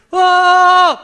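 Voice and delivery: long, high, very loud "waah"; imitated trumpet blast. Preacher imitates priests blowing trumpets, loud held blast. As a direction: blast one held note like a horn. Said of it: "제사장들은 나팔을".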